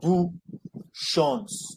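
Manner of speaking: bu, then shons, slowly apart; syllable by syllable. Shown as a demonstration. Teacher to pupil, splitting syllables apart. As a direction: break the word into beats. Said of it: "That's four syllables".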